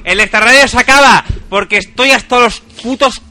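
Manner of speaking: hammed-up furious rant at co-hosts; mock angry rant. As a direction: rant as if fed up with them. Staged on-air quarrel.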